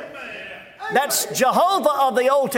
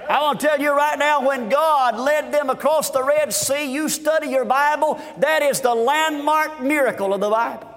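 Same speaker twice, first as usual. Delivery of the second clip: driving revival preaching, building in pitch; fervent preaching. Real, not acted. Preacher to congregation on the Red Sea miracle, fervent preaching. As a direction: preach it with rising fervour.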